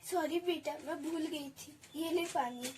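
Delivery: put-on soft, tender apology to her child; quiet reassuring mother; tender comfort. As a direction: gently soothe the daughter. Mother comforts blind daughter.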